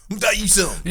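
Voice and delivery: a touch of a Southern redneck voice. Shown as a demonstration. Co-host demoing his redneck voice, a light Southern accent. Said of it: "that's my redneck voice".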